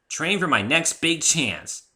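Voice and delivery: high, loud and slow, full of drive; zealous. A narrator's reading. Rainbow Dash tells the narrator her goal, zealous. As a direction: say it like the dream is already real. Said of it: "she said zealously".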